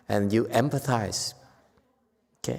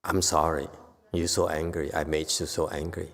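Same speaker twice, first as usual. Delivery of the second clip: soft apology; 6 semitones lower, 4 dB quieter than usual. Shown as a demonstration. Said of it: "You said".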